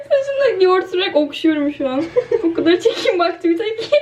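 words bubbling with laughter; amused giggling report; laughing. Real, not acted. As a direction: talk while still laughing. Rubbing yogurt into her hair.

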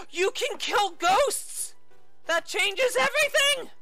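high amazed exclaim; excited discovery. Real, not acted. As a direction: sound amazed and thrilled. Sudden discovery.

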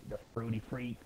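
whispered nickname, under breath. Real, not acted. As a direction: whisper it like a secret.

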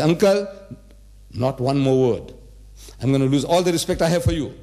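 acted firm, offended warning. Young man warning uncle over his mother's name, offended. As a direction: warn him off, mildly indignant.

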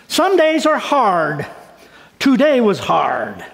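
slow, heavy reading of a hard day; reading her words slowly. Retold or imitated. Pastor reading a sick friend's note, slow and heavy. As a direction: let each word weigh, slowly. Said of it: "She wrote this".

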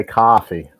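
"coffee" as "cah-fee"; West Coast ah. Shown as a demonstration. Man showing how West Coast people say it, with an ah. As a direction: open the first vowel of "coffee" to ah. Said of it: "We don't have the ah like".

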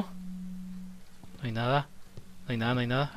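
slow, soft whispered No hay nada; slow tense whisper. Real, not acted. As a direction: whisper so nothing hears you. Searching dark room scared.

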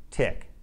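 "tick" starting on a crisp t; "tick" starting on a clean t, no th; exaggerated th practice. Shown as a demonstration. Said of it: "more minimal pairs to practice the T H sound".

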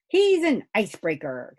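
put-on boy's loud, high call; excited shout. A narrator's reading. Angus cheering on the pond's icebreaker, excited shout. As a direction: shout it out with glee, drawing out the start. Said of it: "shouted Angus".

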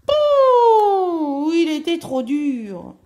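long high "pouh", then loud complaint; loud, high huff of displeasure; exasperated complaint. A narrator's reading. Storyteller on a bed too hard, loudly exasperated.

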